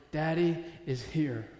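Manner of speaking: slow, unforced comfort; gentle reassurance. Acted. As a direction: let it settle slowly, with pauses. God reminding David, first take.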